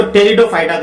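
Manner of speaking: Pteridophyta starting on the T sound; silent P. Shown as a demonstration. Teacher showing the class the correct term, Pteridophyta with silent P. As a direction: say Pteridophyta as "Teridophyta", P unspoken. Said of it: "ये पी यहाँ पे silent है".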